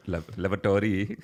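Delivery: Lavatory tried carefully, LAV-a-tor-y; repeating the word. Shown as a demonstration. Repeating after his cohost, careful Lavatory. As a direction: copy Lavatory syllable by syllable. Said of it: "you did it perfect".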